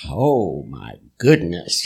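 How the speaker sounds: put-on shocked kids. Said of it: "and we're going".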